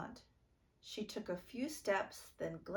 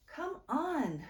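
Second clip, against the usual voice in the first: urging call; 9 semitones higher, 6 dB louder than usual. A narrator's reading. Naya urging sister to hurry.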